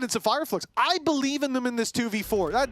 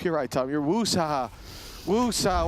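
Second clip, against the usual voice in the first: calming down; 6 semitones lower than usual. Real, not acted. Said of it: "What did Martin Lawrence tell us".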